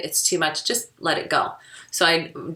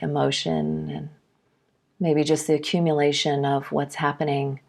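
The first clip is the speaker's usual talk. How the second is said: guided meditation; 2 semitones lower than usual. Real, not acted. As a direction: guide them gently inward, leaving space between phrases. Leads a meditation.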